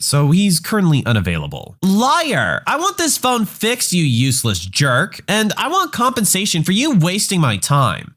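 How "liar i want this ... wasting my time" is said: hammed-up angry customer, higher in pitch; entitled caller mock-yelling insults at the phone rep; mock yelling Karen. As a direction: play the ranting caller, mild mock fury. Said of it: "She proceeds to yell other insults".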